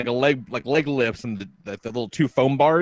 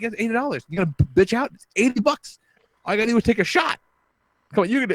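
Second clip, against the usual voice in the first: much higher, goading dare; egging on; 9 semitones higher, faster than usual. Retold or imitated. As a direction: push her on, teasing and pumped up. Taunting daughter to drink.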